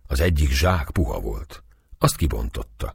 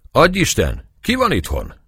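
higher calling out into the dark house; 10 semitones higher than usual. A narrator's reading. The priest calling into the empty house, calling out. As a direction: call out to find whoever is home. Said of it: "kiáltozta be ajtón".

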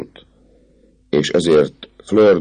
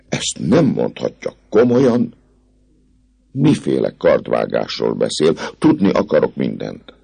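put-on alarmed young lady. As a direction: press him anxiously. Fleur de Lis alarmed. (aggódó, magasabb lányhang)

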